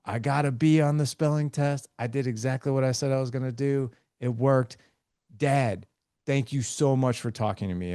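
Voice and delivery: a hint of a proud kid sharing good news. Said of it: "they'll be like".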